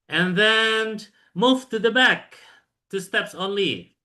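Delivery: high, slow instruction; drawn-out classroom order; teacher command. Shown as a demonstration. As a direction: direct the students slowly. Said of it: "teacher demonstrates the instruction".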